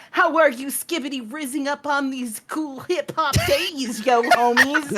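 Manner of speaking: hammed-up slangy greeting; mock hip young person. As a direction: try too hard to sound young. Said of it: "I'll be like".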